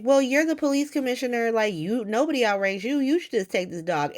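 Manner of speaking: mock whiny excuse. Gio and Emma pushing the dog onto the police commissioner, whiny mock. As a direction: play them as lazily passing the buck. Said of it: "But they're just like".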